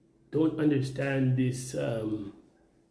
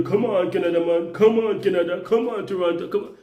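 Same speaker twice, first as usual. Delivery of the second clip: higher, louder mock chant; mocking YouTubers; 4 semitones higher, 3 dB louder than usual. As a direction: ham up a preachy YouTuber. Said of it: "you people say".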